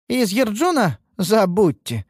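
high-pitched scornful disbelief; contemptuous snort. A narrator's reading. Tall elf dismissing the apprentice's prospects, contemptuous. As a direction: scoff at it, then dismiss it. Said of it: "фыркнула высокая презрительно".

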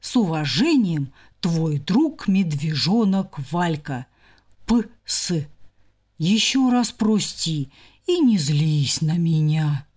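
a hint of a slow, pleading bear cub; lightly voiced, humble cub begging forgiveness; apologetic bear cub. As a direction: read the note as a sorry little bear. Bear cub's apologetic note.

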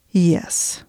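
lightly voiced, slight British accent; vaguely British accent. A narrator's reading. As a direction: answer with a hint of British. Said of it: "vaguely British to go with the trench coat".

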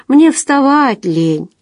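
cling to irony, drag it out; ironic lazy. A narrator's reading. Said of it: "пытался удержаться за иронию".

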